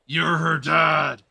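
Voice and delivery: incredulous shout. Real, not acted. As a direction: shout it at the character, stretching each word. Exclaims at the game character.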